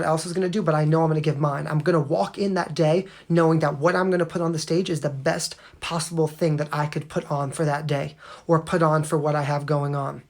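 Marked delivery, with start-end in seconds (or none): 1.7-10.2 talking while chewing gum. Real, not acted. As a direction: chew gum as you speak. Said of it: "Someone said the gum".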